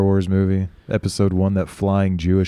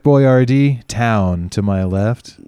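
mock storybook narrator; 4 semitones higher, 5 dB louder, slower than usual.

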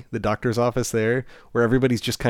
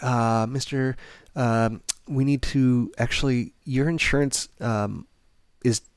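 mildly halting, awkward bad-news delivery; hesitant receptionist; slower than usual. Receptionist telling patient about the insurance hold, imitated mild hesitance. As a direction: stall lightly before breaking it to the patient.

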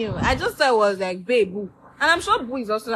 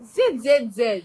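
drawn-out Z sounds; slower than usual. Shown as a demonstration. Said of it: "just imagine that emoji".

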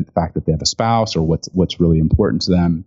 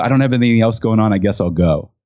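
quick, higher, offhand mock shrug; underwhelmed shrug; 4 semitones higher than usual. Retelling a client's unimpressed reply, mock underwhelmed. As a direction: toss it off like it's no big deal. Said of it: "the most underwhelming response ever".

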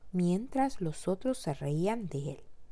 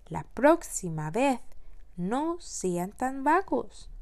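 scolding; 5 semitones higher, slower than usual. Acted. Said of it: "les regañó el mayor".

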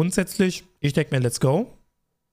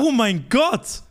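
slow, drawn-out "Oh mein Gott" with a higher voice; stunned; 6 semitones higher, much slower than usual. Real, not acted. Friend hears the threesome story, slow and stunned. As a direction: stretch it out in real shock. Reacting to shocking confession.

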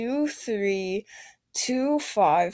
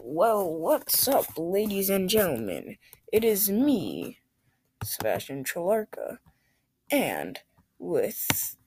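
game show host voice. Pretend. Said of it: "talking in a game show host voice".

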